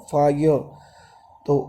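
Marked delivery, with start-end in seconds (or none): 0.1-0.6 "फायर" ending on an open schwa; silent final R. Shown as a demonstration. Teacher showing students that R is not spoken, silent final R. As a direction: drop the last R of "फायर". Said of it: "र तो बोला नहीं जाता ना".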